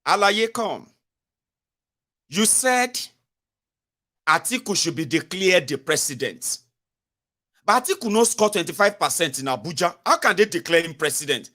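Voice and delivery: lightly acted, incredulous questioning; cross-examining lawyer. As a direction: retell it as a lawyer confronting a witness. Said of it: "Tifnubu lawyer dey here".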